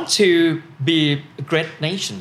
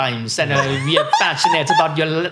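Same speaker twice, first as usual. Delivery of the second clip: put-on Italian accent. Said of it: "Italian English accent".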